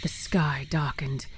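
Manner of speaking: slow, whispered narration; ominous slow whisper; hushed whisper. A narrator's reading. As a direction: breathe it out like a dark omen.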